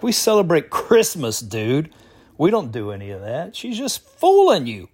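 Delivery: mock-exasperated correction, pitch jumping up; retold protest. Jamaican friend correcting the caller about holidays, mock protest. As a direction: imitate a friend setting someone straight.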